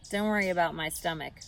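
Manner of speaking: fast, mild rat snarl. A narrator's reading. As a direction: snap it back at the spider. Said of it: "snarled Templeton".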